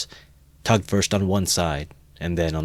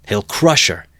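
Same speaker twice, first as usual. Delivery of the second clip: louder cry of alarm; alarmed shout; 3 semitones higher, 7 dB louder than usual. A narrator's reading. Crowd warning the beaten mare, alarmed shout. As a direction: call out in warning. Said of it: "was shouted round him".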